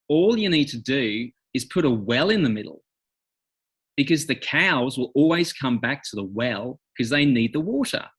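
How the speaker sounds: laid-back Australian cowboy accent; broad Australian twang, rising at phrase ends. Shown as a demonstration. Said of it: "the main cowboy spoke like this".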